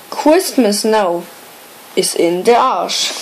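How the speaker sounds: measured comic poem reading, pausing after each line; poem recitation. Acted. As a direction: recite a Denglish Christmas rhyme line by line. Reads a comic mixed-language poem aloud.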